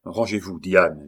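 firm. Acted. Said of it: "dit-il avec fermeté".

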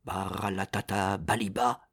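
soft secret magic words; whispering. Acted. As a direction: murmur the spell gently. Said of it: "il chuchota doucement".

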